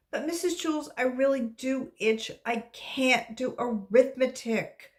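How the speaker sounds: put-on high, pleading child's whine; whining. Dana whining to her teacher, high pitched. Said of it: "Dana whined".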